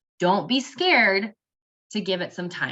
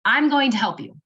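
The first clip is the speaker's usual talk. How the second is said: reassuring promise; 4 semitones higher, 4 dB louder than usual. Shown as a demonstration. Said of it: "Give that very reassuring, hopeful statement".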